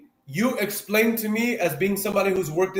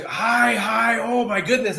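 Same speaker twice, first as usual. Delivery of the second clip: higher-pitched, drawn-out gushing greeting; high energy; 4 semitones higher, slower than usual. Retold or imitated. Coach imitating high-energy guys all the way, high energy. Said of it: "high energy all the way".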